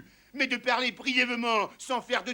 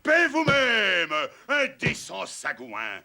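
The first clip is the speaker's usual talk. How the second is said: indignant rebuke; 5 dB louder than usual. Acted. Ubu rebukes the insolent servant.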